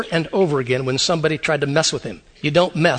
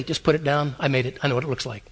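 God; 6 semitones lower, 7 dB quieter, faster than usual. Retold or imitated. God answering Isaiah.

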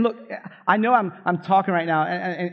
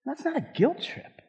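softer, higher, gently reassuring; soft, gentle first take; 6 semitones higher, 7 dB quieter than usual. Shown as a demonstration. Pastor gently tells the congregation it isn't guilt, soft and reassuring. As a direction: ease it in softly, no pressure. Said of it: "said twice".

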